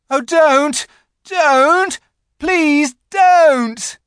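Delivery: high, loud desperate plea; Edmund shouting. A narrator's reading. Edmund shouting to stop the witch. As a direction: beg her to stop. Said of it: "shouted Edmund".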